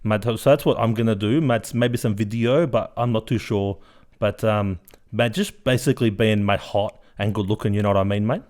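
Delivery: loud, brash blokey uncle voice with mate on every line; Uncle Guido character. Acted. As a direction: play the boastful uncle, cocky and loud. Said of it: "Uncle Guido, you are a character".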